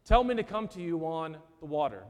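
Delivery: a brash, testing dare; galling challenge. Retold or imitated. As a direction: Peter daring Jesus to prove himself, brash challenge. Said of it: "Peter has the gall to say".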